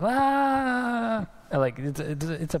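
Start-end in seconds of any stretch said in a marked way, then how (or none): 0.0-1.3 high mock scream of panic in a boat; a hammed-up shriek of fear; panicked scream. Disciples panicking in the storm: high hammed-up scream. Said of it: "I'm thinking they're like".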